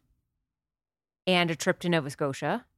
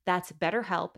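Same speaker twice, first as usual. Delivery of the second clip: soft, measured sponsor read; 4 dB quieter than usual. Acted. Host pausing for a word from our sponsor, soft ad read. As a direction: read the sponsor message quietly and clearly.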